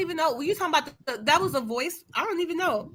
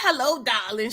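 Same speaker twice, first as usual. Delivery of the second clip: sultry diva; 4 dB quieter than usual. Retold or imitated. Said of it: "trying to cover up that Adam's apple".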